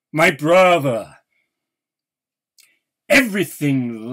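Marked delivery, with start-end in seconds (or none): 0.1-1.2 MY hit louder, cried out in anguish; anguished cry. Acted. Poet mourning his brother, crying out louder. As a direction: break from the whisper into a cry.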